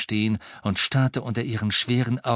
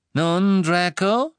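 higher, louder, eager questioning; begierig; 9 semitones higher, 6 dB louder, much slower than usual. A narrator's reading. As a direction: press eagerly for an answer. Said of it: "Er klang begierig". (begierig fragend)

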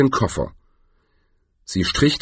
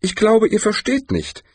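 high-pitched, patient explaining; 12 semitones higher than usual. A narrator's reading. Tourist tells captors they misunderstand, patient high voice. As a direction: reason with them patiently, voice pitched up. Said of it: "sagte der Tourist geduldig".

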